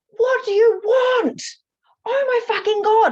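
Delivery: piercing, shrill, very high, very loud scream. Retelling shouting out loud at a spirit: retelling screaming at a spirit. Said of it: "screaming at the spirit".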